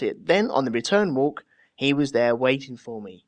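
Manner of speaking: a faint hint of an Australian accent in the quote; slight Australian lilt, reading the witness quote; lightly Australian. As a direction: read the witness with a touch of Aussie. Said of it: "I won't do the Australian accent".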